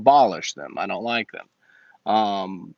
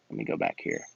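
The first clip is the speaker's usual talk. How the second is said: breathy whisper, much lower; whispered aside; 8 dB quieter, faster than usual. Acted. Muttering to himself while scrolling back, whispered. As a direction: mutter it under the breath to yourself.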